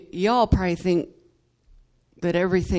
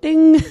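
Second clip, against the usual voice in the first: sung piano ding; 9 semitones higher, 10 dB louder than usual. Retold or imitated. Imitating the piano note.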